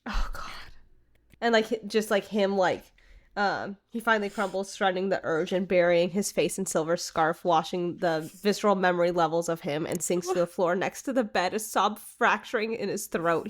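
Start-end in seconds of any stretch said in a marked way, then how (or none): 3.9-13.5 lightly read-aloud narration, a bit lower; story reading. Acted. Reading the fanfic excerpt to her co-host, story narration.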